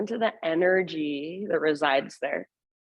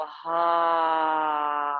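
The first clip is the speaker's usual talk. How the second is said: big open-mouth sigh on the exhale; dramatic sigh; 3 semitones lower than usual. Shown as a demonstration. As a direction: let the whole breath go out the mouth. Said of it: "big open mouth sigh".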